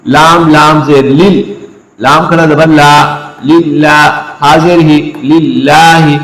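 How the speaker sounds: slow chanted spelling of "लिल्लाही"; spelled recitation. Shown as a demonstration. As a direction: build it letter by letter. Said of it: "अब देखिए". (हिज्जे करके धीमी तिलावत)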